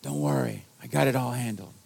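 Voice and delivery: low, understated tough-guy reassurance; imitating Vince. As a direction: do a hint of a New York church guy. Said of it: "he talked just like this".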